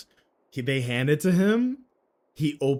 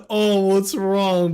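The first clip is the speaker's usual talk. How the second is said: slow, slightly louder growl; lightly growled imitation of a metal singer; death metal voice; 5 semitones higher, 5 dB louder, slower than usual. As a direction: drag it out like a metal frontman. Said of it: "But he said it in that voice".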